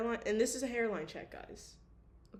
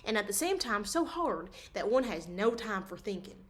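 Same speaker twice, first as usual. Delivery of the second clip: story narration. A narrator's reading. Continues reading novel.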